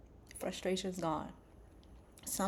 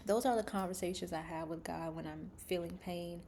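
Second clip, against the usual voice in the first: ordinary delivery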